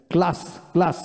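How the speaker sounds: "class" with a broad 'aa', not the 'a' of cat; teacher's drill of "class" as "klaas"; broad-a pronunciation demo. Shown as a demonstration. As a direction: model "class" twice with an open 'aa' vowel. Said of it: "এখানে ক জফলা হয়নি".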